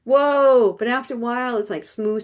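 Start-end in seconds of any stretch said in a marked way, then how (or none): 0.0-0.8 louder, higher mock-alarmed whoa; playful cry of alarm; mock freak-out. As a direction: act out a beginner's mild panic. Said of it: "you're, like, freaking out".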